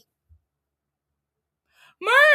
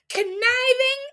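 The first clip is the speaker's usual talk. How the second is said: pitched-up, drawn-out accusing list of C words; mock accusation; slower than usual. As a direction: sneer out each C word slowly, like a gotcha. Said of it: "Michael replies".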